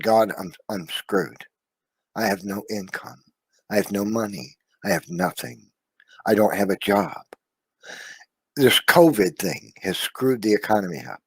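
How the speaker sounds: mildly tearful, near-whispered despair; retold tearful prayer. Man recalling praying to God alone, softly tearful. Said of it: "cried my eyes out".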